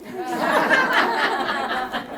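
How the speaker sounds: a high burst of real laughter at the punchline. Real, not acted. Laughs at his own punchline.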